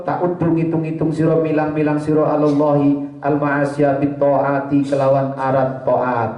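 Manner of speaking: measured chanted reading of the Arabic text; kitab recitation. Acted. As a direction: recite the kitab line like a pesantren teacher.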